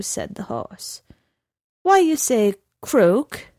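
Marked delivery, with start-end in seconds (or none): 1.8-3.5 cold insistence. A narrator's reading. Horse presses the question.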